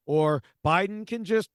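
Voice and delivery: mock poster, pitched well up; imitating online commenters. Host quoting people on Twitter about executive orders, mock naive. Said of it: "who were like".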